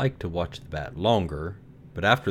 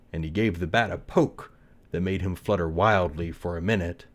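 ordinary delivery, nothing marked

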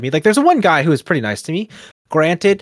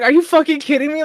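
very high-pitched mock disbelief; retold incredulity; 3 dB louder than usual. Newcomer reacting to the intimidated riders, retold incredulity. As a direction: replay your disbelief, voice shooting way up. Retells own disbelief at the group.

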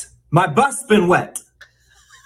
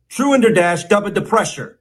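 brisk, higher "Truender dash dubba depressure"; a little more quickly; 4 semitones higher than usual. Shown as a demonstration. Mock teacher speeding up the drill for students, quicker. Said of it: "Say it a little more quickly".

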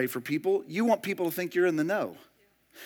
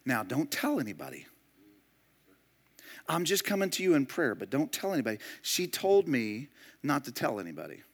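mock gossip; 3 semitones lower, 8 dB quieter than usual. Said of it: "And we say things like".

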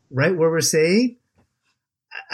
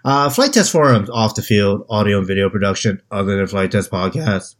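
monotone robot; 5 semitones lower than usual. Shown as a demonstration. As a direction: lower monotone robot read. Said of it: "I wanted to sound like a mono-, monotone robot".

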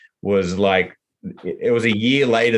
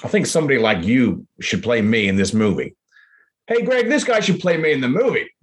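higher, eager Frank impression; a lightly put-on Frank, pitched up; imitating Frank; 4 semitones higher than usual. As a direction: play Frank excitedly calling someone over. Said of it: "he kinda just said".

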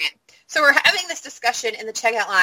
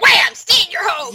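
high, loud mimicked command; loud, high-pitched pretend announcement; mock sudden order; 7 semitones higher, 4 dB louder than usual. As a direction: burst out with a mock lockdown order.

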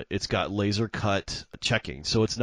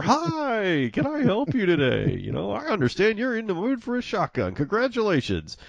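high, chipper salesman greeting, much higher than his own voice; bouncy young clerk; 12 semitones higher than usual. Retold or imitated. Young clerk greeting a customer, high and bouncy. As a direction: play the eager kid bounding up to sell. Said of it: "this kid comes bouncing over".

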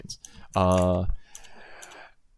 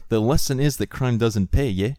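mock South African, slightly raised and lilting; South African accent; 3 semitones higher than usual. Shown as a demonstration. Showing co-host how they talk, South African accent. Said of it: "That's how they talk".

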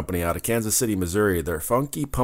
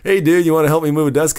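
imitating a friend; 7 semitones higher, 6 dB louder than usual. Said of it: "old Matt Smith".

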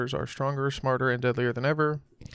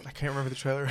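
whispering; 5 dB quieter, faster than usual. Real, not acted. Aside under laughter.

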